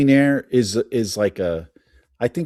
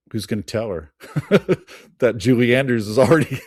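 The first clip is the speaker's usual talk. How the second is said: amused laughing; 3 dB louder than usual. Real, not acted. Laughs over awkward casting story.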